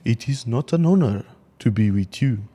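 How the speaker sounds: lightly put-on voice of a smug hero; proud declaration in a slightly altered voice; arrogant Sunfire. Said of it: "he's saying stuff like".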